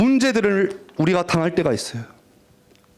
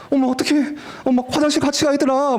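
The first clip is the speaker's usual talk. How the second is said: high-pitched gushing schoolgirl; mock girly fussing; imitated teenage girls; 7 semitones higher than usual. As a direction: squeal lightly to your girlfriends. Voices teenage girls going off together.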